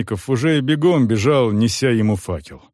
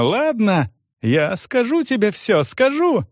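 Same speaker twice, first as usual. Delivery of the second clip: much higher, desperate giving in; panicked cry; 11 semitones higher than usual. A narrator's reading. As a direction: cry out to save herself. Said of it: "вдруг закричала женщина".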